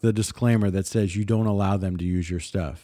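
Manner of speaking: deadpan sarcasm, tossed off at the end; sarcastic. Real, not acted. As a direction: offer it as if it truly works. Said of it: "Sarcasm added".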